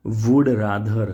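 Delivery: "would rather" said slowly, word by word; careful pronunciation. Shown as a demonstration. Teacher showing students how to say "would rather". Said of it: "આ બંને ઉચ્ચાર અહીંયા લખી દઉં છું".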